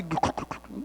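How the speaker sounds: soft imitated glugging; quiet mock drowning gurgle; imitated underwater gurgle. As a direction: mimic someone gurgling under water. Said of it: "ele estava assim embaixo da água".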